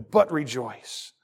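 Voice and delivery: "but rejoice" drawn out slowly with the weight on "but"; slow emphatic. Shown as a demonstration. Preacher driving home the point to his congregation, slow and emphatic. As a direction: lean hard on "but" and stretch out "rejoice". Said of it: "I'm gonna say this this way intentionally".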